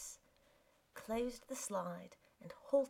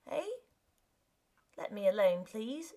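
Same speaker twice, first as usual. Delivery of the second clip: rough; 5 dB louder than usual. Acted. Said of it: "said the man roughly".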